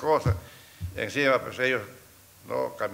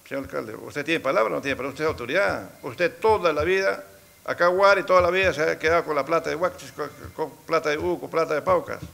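retold angry confrontation; 3 semitones higher than usual. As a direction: demand an answer from the mayor, building heat.

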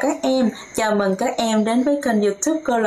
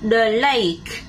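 model for repeating; slower than usual. Shown as a demonstration. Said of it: "Listen and repeat".

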